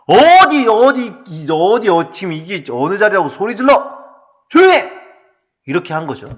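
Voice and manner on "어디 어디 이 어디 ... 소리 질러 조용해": acted outrage, bursting out at the end; indignant rebuke. Shown as a demonstration. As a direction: tell off a noisy upstart. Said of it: "꾸짖어 이렇게 얘기한 거예요".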